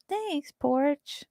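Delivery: ordinary talk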